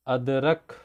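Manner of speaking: अदरक with extra force on the closing रक; stressed final syllable. Shown as a demonstration. Teacher showing children syllable stress, forceful end on अदरक. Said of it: "ख को हम लोग ज़्यादा जोर से".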